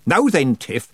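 put-on high, loud cackling old witch; a bawdy old witch teasing; jolly old witch calling out; Nanny Ogg voice.

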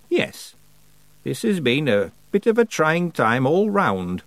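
slow, composed reply; very calm. A narrator's reading. Old witch soothes the outburst, very calm. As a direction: answer slowly, unruffled. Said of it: "said Miss Treason very calmly".

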